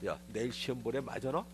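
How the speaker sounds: put-on a touch of sneer at the kid; half-hearted needling question; mildly sarcastic. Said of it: "조금 빈정거리는 투로". (살짝 빈정거리는 말투)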